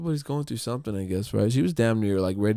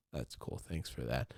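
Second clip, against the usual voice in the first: laughing that's cool; 11 semitones lower, 16 dB quieter than usual. Real, not acted.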